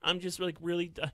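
lightly mock a hushed, sincere-sounding voice; mild mock soft-spoken sympathy. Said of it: "like, a soft".

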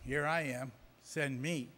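small, soft, timid mock volunteer; wimpy. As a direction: pipe up meekly, barely wanting to be noticed. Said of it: "that wimpy little hand in the back of the crowd".

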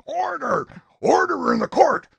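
high, loud yell for order. A narrator's reading. Sheriff to the uproarious courtroom, yelling. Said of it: "the sheriff yelling".

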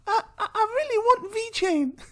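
put-on high, pleading kid voice; child wanting a toy, voiced very high; whiny child. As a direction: beg like a spoilt kid. Child voice in acted skit.

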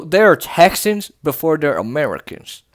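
put-on Texan accent. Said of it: "always go into that accent".

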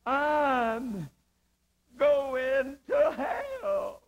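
slow, crying mock shout of terror; desperate dying cry. Dying father crying out in fear, slow desperate cry. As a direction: wail it out in desperation. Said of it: "he said twice in desperation".

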